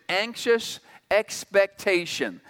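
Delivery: "expectation" set apart and stressed; emphasis on expectation. Shown as a demonstration. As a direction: lean deliberately on the word "expectation". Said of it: "with an emphasis on the word expectation".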